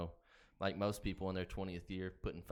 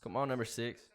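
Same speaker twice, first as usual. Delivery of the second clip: cheering; 3 semitones higher, 6 dB louder than usual. Real, not acted. Cheering horse falling back.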